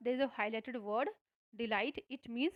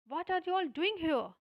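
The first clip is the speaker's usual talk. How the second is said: higher, louder mock giant shout; gruff giant; 6 semitones higher, 5 dB louder, much slower than usual. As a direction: bark it at the children like an angry giant. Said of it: "he cried in a gruff voice". (राक्षस बच्चों पर चिल्लाता हुआ, हल्की नकली कड़क आवाज़ में)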